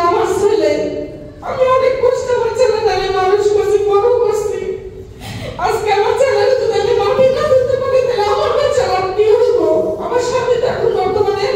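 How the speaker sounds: crying through the words; snotty crying. Real, not acted. Mother recounting son's death, sobbing.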